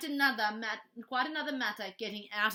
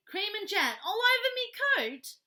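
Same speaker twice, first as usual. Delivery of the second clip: high, loud, bitter cabbie voice; bitter complaint; 10 semitones higher, 8 dB louder than usual. Acted. Taxi driver complaining about his ruined coat, bitter and loud. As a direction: moan it out furiously. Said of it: "he said bitterly".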